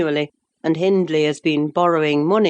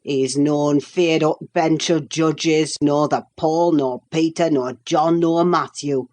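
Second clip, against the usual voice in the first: put-on old Yorkshire servant; 2 semitones lower than usual. Nelly quoting Joseph's gossip in broad Yorkshire. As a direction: gossip in thick Yorkshire speech. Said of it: "it was Joseph who told me".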